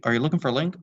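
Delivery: cheerful fatherly greeting; polite dad. Acted. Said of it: "inquired politely".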